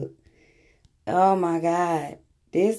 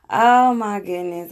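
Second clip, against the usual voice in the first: amused exclamation; 2 semitones higher, 6 dB louder than usual. Real, not acted. Laughing after the clip.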